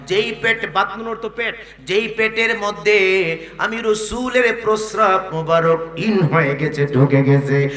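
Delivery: loud, insistent sermon delivery; emphatic preacher; forceful preaching. Real, not acted. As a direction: drive each phrase home loudly.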